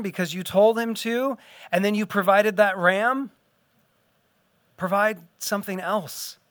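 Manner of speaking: a son gently pleading with his father. Retold or imitated. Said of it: "It's almost like he's saying".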